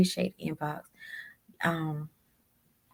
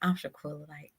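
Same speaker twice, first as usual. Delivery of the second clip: laughing protest; 3 semitones higher, 4 dB louder than usual. Retold or imitated. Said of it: "And I'm".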